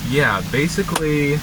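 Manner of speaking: talking around a mouthful of food; speaking while chewing a wing. Real, not acted. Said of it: "I've eaten one wing".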